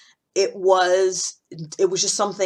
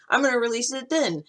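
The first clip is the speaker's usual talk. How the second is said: acted promise; 7 semitones higher than usual. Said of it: "And I'll say, like".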